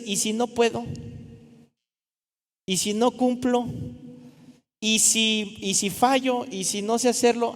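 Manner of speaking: a nervous believer doubting himself; anxious doubts. Retold or imitated. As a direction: worry aloud whether you can do it. Voicing self-doubt.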